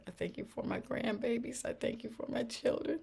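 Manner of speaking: high, soft prayer of thanks; earnest thanks. Retold or imitated. Retelling her thanks to God for grandbabies, earnest.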